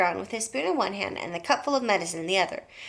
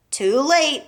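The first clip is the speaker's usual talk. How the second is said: pleased; 5 semitones higher, 5 dB louder than usual. A narrator's reading. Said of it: "looking pleased".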